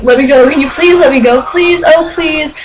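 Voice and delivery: put-on polite begging, slowing on the pleases; mock nice pleading. Mimicking a singer too nice to fans, mock pleading. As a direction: plead nicely in mockery. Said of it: "being all nice about it".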